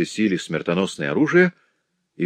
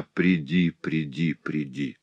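each приди softer and lower; fading call; 3 semitones lower, 5 dB quieter, slower than usual. A narrator's reading. Cecily calling her tiger, fading to a breath. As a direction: let the call die away.

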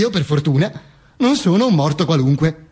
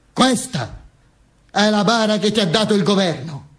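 lightly voiced wife; 3 semitones higher than usual. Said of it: "Mi disse mia moglie".

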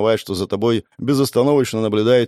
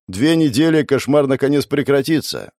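lifted, louder and higher; raised voice; 6 semitones higher, 3 dB louder than usual. A narrator's reading. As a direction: raise the voice with relief. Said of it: "повысил голос Эдвард".

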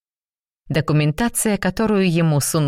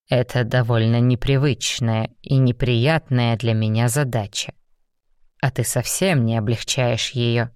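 lower, restrained demon; a lightly lowered stern demon; 4 semitones lower than usual. Acted. Raum, a demon, voiced lower. (сдержанный низкий голос демона)

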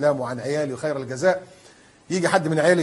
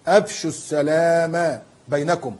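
slow recitation; much slower than usual. Shown as a demonstration. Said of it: "قال صلى الله عليه وسلم".

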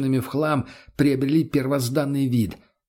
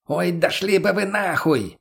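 higher, slow hammed-up yell; yelled at the top of lungs; 6 semitones higher, slower than usual. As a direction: bellow it out, dragging the words. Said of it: "крикнул во всё горло". (орёт во всё горло, медленно)

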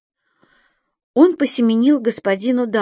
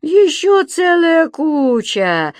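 high gleeful creature voice; 9 semitones higher, 5 dB louder, much slower than usual. A narrator's reading. Subastik boasts.

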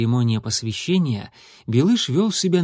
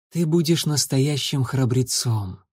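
plain reading voice

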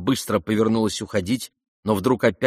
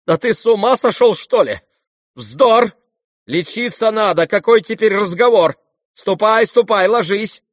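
high, loud, frightened orders; frightened cry; 11 semitones higher, 7 dB louder than usual. A narrator's reading. Mother frightened for the dying youth, cries out. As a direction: shoo him to bed in alarm. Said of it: "испуганно крикнула".

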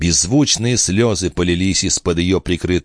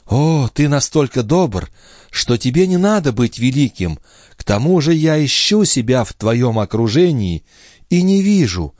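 put-on higher, tender young woman's voice; young wife in love, voiced higher; loving young wife; 7 semitones higher than usual. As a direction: speak as the devoted wife.

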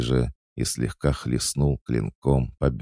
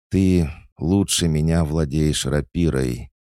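higher, raised-voice admission; fairly loud; 5 semitones higher, 4 dB louder than usual. A narrator's reading. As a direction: say it up for everyone to hear. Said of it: "довольно громко произнесла Мария".

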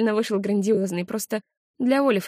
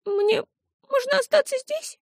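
put-on hopeful child. A narrator's reading. Tearful child pleading.

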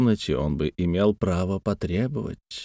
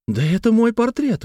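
much higher, bright burst of recognition; lively exclamation; 13 semitones higher than usual. A narrator's reading. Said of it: "воскликнула Марианна с живостью".

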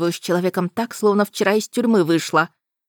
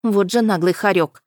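usual speaking voice

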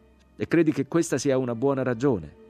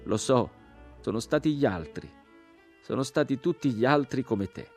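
higher, reproachful voice; raised, bitter reply; bitter accusation; 6 semitones higher than usual. A narrator's reading. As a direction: accuse the listener along with all the others. Crucified man accuses the rescuer's kind.

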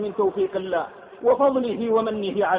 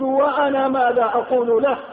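wondering question. Retold or imitated. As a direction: ask it of yourself, stricken. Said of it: "تساءلت وقلت".

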